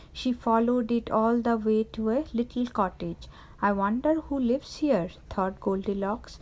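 put-on measured children's story narration; clear, unhurried storybook reading; storytelling to children. A narrator's reading. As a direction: read a fairy tale to young listeners.

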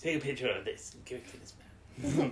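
lightly voiced attempt at the Doctor; bad Doctor impression. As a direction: have a rough go at the Doctor's voice. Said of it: "Was that meant to be the doctor?".

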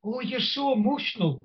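lightly voiced Welsh woman gushing. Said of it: "this Welsh woman came up and said".

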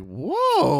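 exaggerated surprise; retold taken aback. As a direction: react to a rude outburst, acted out. Reacting to being cursed out.

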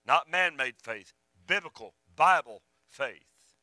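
slow, weighted stress on "Biblical, Bible faith"; deliberate emphasis on "Biblical", word by word; emphatic stress. Real, not acted. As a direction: set "Biblical" and "Bible" apart, each punched slowly. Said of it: "I keep emphasizing the word biblical faith".

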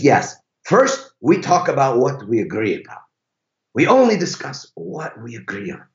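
lightly imitated Italian driver; awful Italian accent. Driver explains the couple's rule, awful Italian accent. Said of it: "That's an awful Italian accent".

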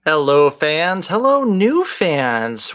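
slow, welcoming hello to new listeners; slow greeting. Acted. Host welcoming new fans, slow and welcoming. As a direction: draw out the hello warmly.

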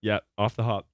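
talking while chewing edamame; words round a mouthful; mouth full. Real, not acted. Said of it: "Sorry, I'm eating edamame".

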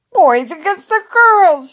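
high, loud challenge; shouted. A narrator's reading. Jaden challenging the girls to kickball, high excited shout. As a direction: shout it to the whole gang. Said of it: "shouted Jaden".

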